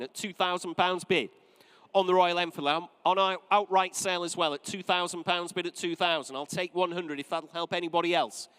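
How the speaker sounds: measured auction call, dropping the hammer; auctioneer calling bids. Real, not acted.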